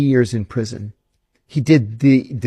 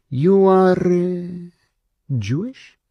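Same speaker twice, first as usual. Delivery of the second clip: suspicious questioning; 6 semitones higher, slower than usual. Retold or imitated. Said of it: "he says to me like this".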